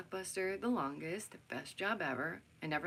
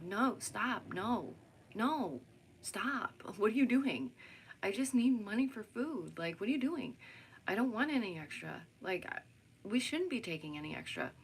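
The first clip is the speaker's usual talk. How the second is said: retold protest; 3 semitones higher than usual. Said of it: "I'm like".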